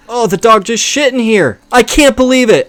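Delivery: high, loud real exasperation; exasperated. Real, not acted. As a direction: exclaim in outraged disbelief. Puppy just fouled the room.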